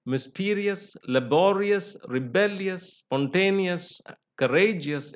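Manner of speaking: "mysterious, laborious, rebellious, spontaneous, courageous", each stressed before -ious or -eous; stress before the ending. Shown as a demonstration. Teacher giving examples of the rule, stress before the ending. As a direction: list "mysterious" to "courageous" slightly high, leaning on the middle. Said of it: "last but one or penultimate syllable".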